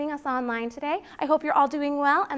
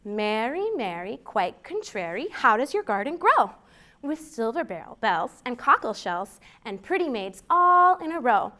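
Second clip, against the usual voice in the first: nursery rhyme recital; 5 dB louder than usual. Acted. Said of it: "And it goes like this".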